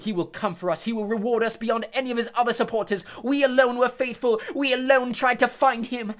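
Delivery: loud, high fanatical defiance; defiant witch. Acted. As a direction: call out proudly to Crouch. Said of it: "looked up at Crouch and called".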